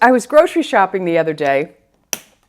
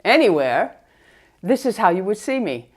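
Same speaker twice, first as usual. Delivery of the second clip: muffled through a face mask; talking behind a mask. Real, not acted. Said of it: "let's go ahead and remove the mask".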